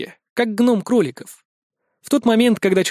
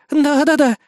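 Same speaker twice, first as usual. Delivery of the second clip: higher, louder hurried yes-yes-yes; nervous babble; 9 semitones higher, 5 dB louder than usual. A narrator's reading. Frightened elf girl babbling agreement to the gang leader. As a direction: babble agreement to cover the lie. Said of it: "залепетала Рина".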